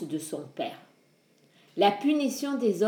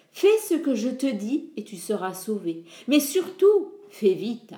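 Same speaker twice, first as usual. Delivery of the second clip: urgent father's voice; 2 semitones higher than usual. Acted. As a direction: order him to act, then press hard. Prometheus's voice gives orders.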